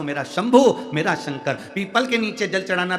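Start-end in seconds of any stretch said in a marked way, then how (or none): 0.0-1.5 loud, heartfelt call to Shiva. Shown as a demonstration. Preacher shows the crowd how to call Shiva, loud and heartfelt. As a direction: cry the name out with devotion. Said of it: "दिल से कहो".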